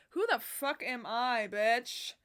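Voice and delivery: loud, slow excited shout; excited yell. Real, not acted. Vlogger hyping her own outfit, loud excited shout. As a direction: hype herself up loudly.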